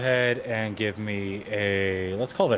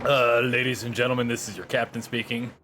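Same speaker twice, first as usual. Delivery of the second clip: lightly voiced airline captain; a hint of a cabin PA voice; pilot announcement. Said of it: "That's what you sound like".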